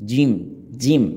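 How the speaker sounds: জিম articulated from inside the mouth; repeated drill of জিম, j from inside. Shown as a demonstration. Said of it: "উচ্চারণটি ভিতর থেকে হবে".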